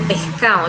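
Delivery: "pescado" with the s and d dropped; "pescado" worn down to "pehcao"; coastal pronunciation. Shown as a demonstration. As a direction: say "pescado" loosely as "pe'cao", coastal style. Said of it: "en la costa, utilizan el pescado".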